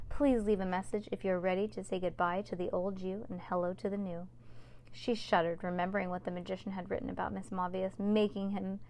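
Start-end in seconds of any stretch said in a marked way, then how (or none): 0.1-4.3 cool, smooth answering machine greeting; icy voice. Acted. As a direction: let every word go cold. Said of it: "icy voice".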